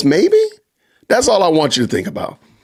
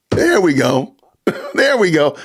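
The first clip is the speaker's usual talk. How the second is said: laughing. Real, not acted. Laughing at his own joke.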